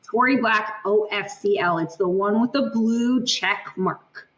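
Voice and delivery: spelled out slowly for clarity; measured, careful pace; slow and deliberate. Real, not acted. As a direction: say it slowly, so nobody gets confused. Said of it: "I say that slowly".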